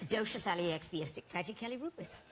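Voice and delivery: supercalifragilistic said backwards; backwards speech. Shown as a demonstration. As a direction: reverse the word syllable by syllable. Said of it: "Do you wanna hear it?".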